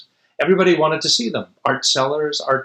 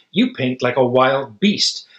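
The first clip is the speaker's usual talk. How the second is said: retort; slower than usual. Acted. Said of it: "Picasso retorted".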